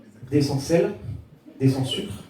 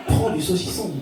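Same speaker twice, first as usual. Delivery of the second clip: understated demon giving an order; lightly voiced demon; 3 dB quieter than usual. Demon on the shoulder urging a dieter, lightly voiced. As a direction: tempt like a demon, without pushing. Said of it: "un gros démon sur l'épaule qui te dit".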